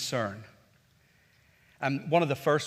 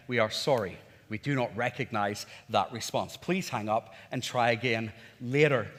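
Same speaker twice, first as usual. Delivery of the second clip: lightly voiced lower automated message; voice recognition bot; 4 semitones lower than usual. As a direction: recite it like a recorded phone refusal. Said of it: "and I kept on getting".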